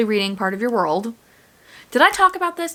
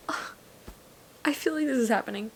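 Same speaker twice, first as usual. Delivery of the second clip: usual speaking voice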